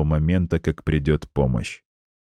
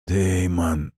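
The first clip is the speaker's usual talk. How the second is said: hoarse wheeze. Acted. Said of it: "снова прохрипел дядя".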